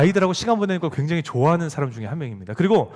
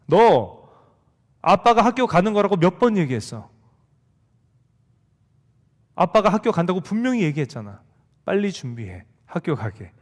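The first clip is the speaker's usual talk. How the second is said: held-back anger. Retold or imitated. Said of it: "뚜껑을 간신히 부여잡으면서".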